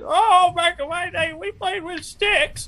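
high-pitched put-on old-timer; mock a parent's hardship story. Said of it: "they hit you with this shit".

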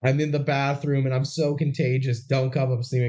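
lightly muffled, as if behind a door. Retold or imitated. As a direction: talk as if muffled through a bathroom door. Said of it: "Molly speaks in a muffled voice".

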